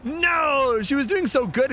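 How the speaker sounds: real shock at a blown chase; dismayed cry. Real, not acted. Streamer reacts to the misplay.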